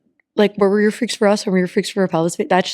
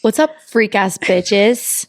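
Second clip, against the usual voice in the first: mock announcer; much slower than usual. Shown as a demonstration. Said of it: "you would be like".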